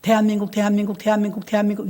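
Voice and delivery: rapid repeated 대한민국 drill; tongue-twister 대한민국 chant; repeating a phrase fast. Shown as a demonstration. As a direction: rattle off 대한민국 over and over. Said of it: "저도 그렇게 받았거든요".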